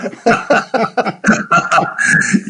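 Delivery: a long, high real laugh at the joke; hearty laugh. Real, not acted. Guest laughs at age joke.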